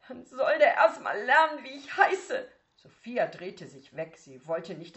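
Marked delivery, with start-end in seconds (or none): 0.1-2.5 put-on higher, louder indignant teen; sulky retort. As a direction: insist on her name, offended. Daughter retorts about brother.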